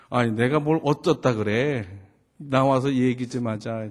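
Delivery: 살짝 화를 실어 따지기; 억눌린 화가 조금 묻어나는 아빠 흉내. Retold or imitated. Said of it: "화가 막 났어요". (약간 화난 말투)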